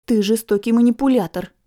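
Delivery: amused scornful snort; snorting scoff. Acted. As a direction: scoff it at him. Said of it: "фыркнула я".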